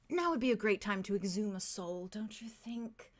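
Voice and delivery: mean it, lean in gently on the question; earnest. Acted. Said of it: "kind of earnestly says".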